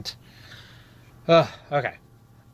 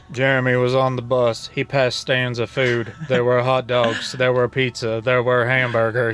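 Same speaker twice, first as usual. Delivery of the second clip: flat, droning monotone reading, every line the same. Shown as a demonstration. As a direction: read it like a bored monotone robot. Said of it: "read it to him in a monotone voice".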